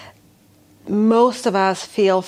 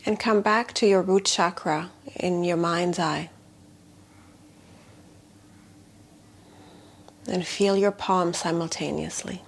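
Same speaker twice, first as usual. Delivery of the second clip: guided meditation. Shown as a demonstration. Healer guiding attention into the palms, guided meditation. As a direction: invite them to notice, leaving long silences. Leads body awareness meditation.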